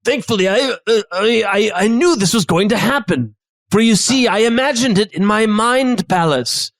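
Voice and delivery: knowing chef, pitched a little up; lightly put-on chef voice; chef character. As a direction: reveal your foresight as the chef. Chef reveals his foresight.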